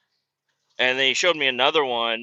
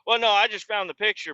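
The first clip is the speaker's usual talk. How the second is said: put-on higher, sheepish old-timer; a hint of the squeaky geezer; old man voice; 9 semitones higher, faster than usual. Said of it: "He's like".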